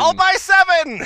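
excited. Pretend. Mock eager buyer.

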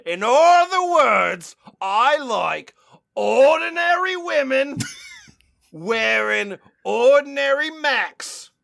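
hammed-up creepy sincerity; mock earnest reading. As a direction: read the confession with faux earnestness.

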